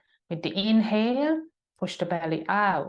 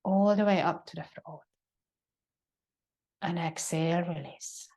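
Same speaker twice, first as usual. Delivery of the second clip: calm yoga breath cues with long pauses; sparse, unhurried breathing instructions; guided breathing; 2 semitones lower than usual. Acted. Leads a breathing exercise.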